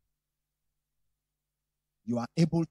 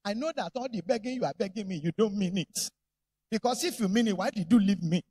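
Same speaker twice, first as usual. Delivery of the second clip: accusing wife. Retold or imitated. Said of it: "She will now say".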